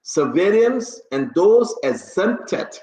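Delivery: slow, deliberate rereading of a decree; formal order reading. Real, not acted. Host rereads the order for listeners, formal and slow. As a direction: proclaim it with long pauses between phrases.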